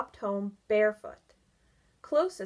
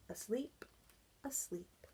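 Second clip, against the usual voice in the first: fading away; 11 dB quieter than usual. Acted. Narrator fading to sleep.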